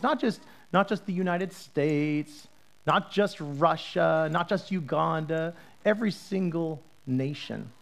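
slow, each "not just" weighed out; slow emphatic list. Shown as a demonstration. Pastor stressing every nation, slow and emphatic. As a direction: spell it out deliberately. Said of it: "listing nations emphatically".

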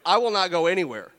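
loud, hammed-up threat of a woman who won't budge; mock threat. Woman refusing to leave the prophet, shouting a mock threat. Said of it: "It sounds like she says".

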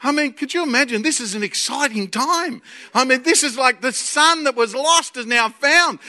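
ordinary talk, nothing marked

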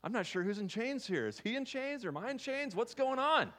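high, loud, bubbling with joy; rejoicing Paul. Retold or imitated. Paul rejoicing to the congregation about his chains, high excited voice. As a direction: celebrate being in chains, high and bright. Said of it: "He's like".

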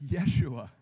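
"Yeshua" pronounced the Hebrew way, YEH-shoo-ah; "Yeshua", spoken as the Hebrew form of Jesus; Hebrew pronunciation. Shown as a demonstration. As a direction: say "Yeshua" as YEH-shoo-ah, stress on the first syllable. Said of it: "how you pronounce Jesus in the Hebrew".

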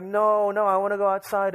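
high-pitched mock crying child; mild wailing protest, acted out; Manny. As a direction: imitate a kid's tearful plea, only lightly. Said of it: "Manny starts crying".

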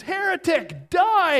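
high, loud shout of condemnation; acted scream. Passerby turning on the man over denomination, screaming. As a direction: scream it in sudden mock outrage. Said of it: "And the guy screams".

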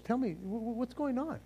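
acted soft, hesitant question; soft coaxing. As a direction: ask softly, as if placating him. Woman placating Joab in acted dialogue.

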